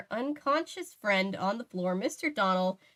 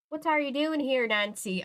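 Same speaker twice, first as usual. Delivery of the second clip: put-on Irish accent; 5 semitones higher than usual. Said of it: "Gabe could do it better".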